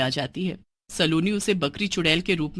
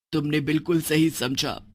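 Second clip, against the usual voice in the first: lightly voiced witch mother; 4 semitones lower than usual.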